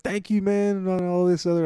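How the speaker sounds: hammed-up tearful gratitude; squeaky imitation of a grateful man; imitating a crying man. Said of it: "He was, like, crying".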